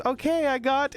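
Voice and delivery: high-pitched waitress voice. Acted. Waitress taking the boys' order, high voice. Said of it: "she goes".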